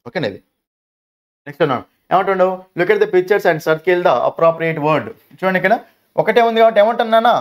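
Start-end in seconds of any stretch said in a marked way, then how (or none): 2.8-5.1 reading the instruction word by word, slowly; slow textbook reading. Acted. Teacher reading the exercise instruction to pupils, slow and deliberate. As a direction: read it out slowly so children follow.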